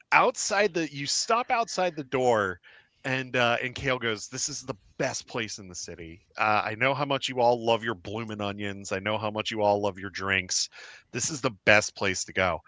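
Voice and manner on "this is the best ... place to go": Kale's voice. Acted. Kale recommends the tavern.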